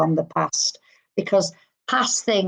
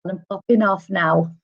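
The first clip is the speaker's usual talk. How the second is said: lightly put-on camp farewell; a flamboyant gentleman saying a breezy goodbye; imitating a camp man, gently; 3 semitones higher than usual. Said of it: "he put a lot of it on".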